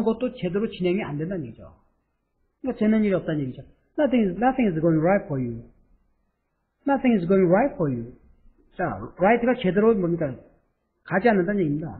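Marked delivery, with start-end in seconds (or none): 4.0-8.1 slow model read. Shown as a demonstration. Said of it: "teacher models the sentence".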